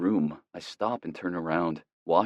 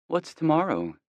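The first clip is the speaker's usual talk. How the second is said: put-on girlfriend voice; 11 semitones higher than usual. A narrator's reading.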